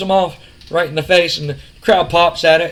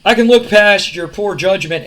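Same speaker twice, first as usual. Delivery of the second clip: cocky promo voice; 4 dB louder than usual. Retold or imitated. Retelling wrestling promo, Shane speaking.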